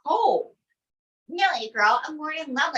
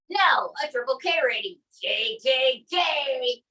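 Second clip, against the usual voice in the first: Trump impression; slower than usual. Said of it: "Donald J Trump".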